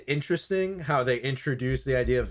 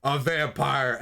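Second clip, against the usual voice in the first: slow, drawn-out monster announcement; mock menacing reveal, stretched out; chameleon vampire; much slower than usual. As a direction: imitate a creature proclaiming itself. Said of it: "weird chameleon design where he's like".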